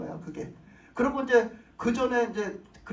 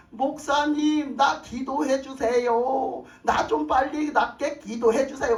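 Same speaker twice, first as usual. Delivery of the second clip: pleading sick mother; 2 semitones higher, much slower than usual. Retold or imitated. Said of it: "막 이러는 거예요".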